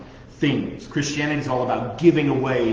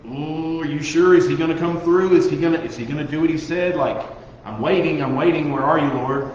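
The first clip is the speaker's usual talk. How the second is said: higher, louder, worried pleading to God; anxious doubting inner voice; 3 semitones higher, 4 dB louder than usual. Retold or imitated. Believer in a tense moment doubting God, anxious pleading. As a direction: fret aloud, waiting on the Lord to come through. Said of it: "we go back into that feeling that".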